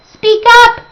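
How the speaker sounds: calling out. Acted. Child calling out to reader.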